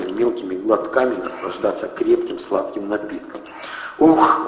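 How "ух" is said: contented sigh of relief; satisfied sigh. A narrator's reading. Andrey sipping hot coffee, a satisfied sigh. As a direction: breathe out with pleasure. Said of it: "удовлетворённо вздохнул он".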